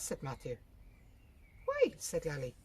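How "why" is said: much higher, loud burst; startled why. A narrator's reading. Lally startled when Matthew asks the address, high. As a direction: caught off guard.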